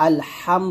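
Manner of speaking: আলহাম with a breathy throat হ, slow; correct ha sound. Shown as a demonstration. Teacher showing the correct হ in আলহাম. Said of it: "এটা হচ্ছে হা".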